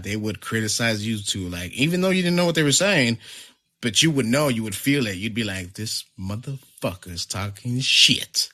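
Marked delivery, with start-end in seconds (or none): 5.7-8.5 slow, drawn-out mock indignation; imagined indignation. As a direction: stretch it out, as if just catching on. Imagined suspicious reaction to overheard talk.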